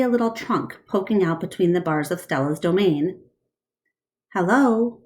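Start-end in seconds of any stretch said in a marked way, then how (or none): 4.3-5.0 small clear voice. Acted. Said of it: "says a small, clear voice".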